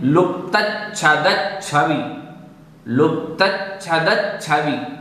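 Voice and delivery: लुप्तच्छदच्छवि with each च्छ held as a double consonant; careful pronunciation. Shown as a demonstration. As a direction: model लुप्तच्छदच्छवि part by part. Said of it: "इस प्रकार से बोलना है आपको". (लुप्तच्छदच्छवि में दोनों च्छ स्पष्ट बोलें)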